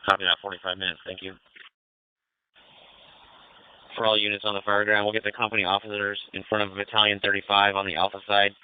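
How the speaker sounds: crackly two-way radio; police radio. Real, not acted. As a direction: call units over the radio. Commander calling units over radio.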